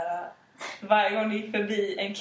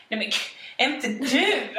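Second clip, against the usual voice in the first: loud mock rejection; 3 semitones higher, slower than usual. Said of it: "säger de så jättehögt".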